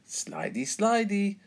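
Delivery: put-on high, playful singsong child voice; excited, high-pitched squeal on the second word; giggly little pig. A narrator's reading. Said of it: "giggles George".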